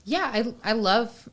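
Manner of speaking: put-on British accent, slowly; a touch of posh British. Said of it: "you're doing the British accent".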